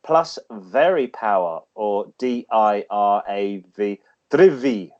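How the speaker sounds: lightly read-out segment voice; feature read. Acted. Reads classic car feature.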